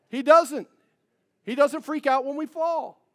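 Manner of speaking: high, loud emphatic proclaim; full-force preaching. Real, not acted. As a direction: lift the voice on doesn't.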